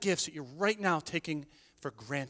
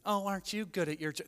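mock sarcastic compliment; a lightly sneering fake compliment; sarcastic praise; 6 dB quieter than usual. Pastor mocking fake praise of a rival, lightly sarcastic. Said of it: "Not sarcastically".

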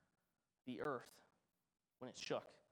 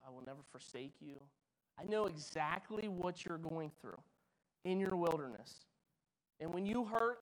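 tender voice of God. Pretend. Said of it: "He says".

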